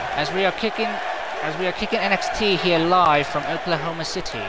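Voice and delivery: broadcast host welcome. Acted.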